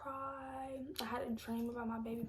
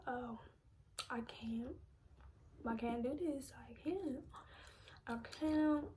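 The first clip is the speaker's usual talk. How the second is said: real choked-up, halting plea; holding back tears; 3 dB quieter than usual. Real, not acted. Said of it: "I'm trying not to cry".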